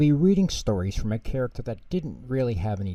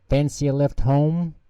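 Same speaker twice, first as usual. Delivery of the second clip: cheery offer; 5 semitones higher, 4 dB louder, slower than usual. Acted. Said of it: "Pingu asked Pingy cheerily".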